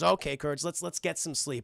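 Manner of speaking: mildly tender retold line; soothing. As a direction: gently settle a nervous dog. Wife soothes dog at bedtime.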